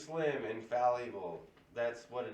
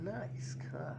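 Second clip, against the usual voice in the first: Full Throttle quote; 10 semitones higher than usual. Pretend.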